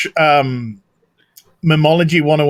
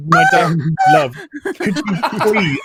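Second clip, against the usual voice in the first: anime voice; 4 semitones higher than usual. Acted. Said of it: "Every super chat gets an anime voice".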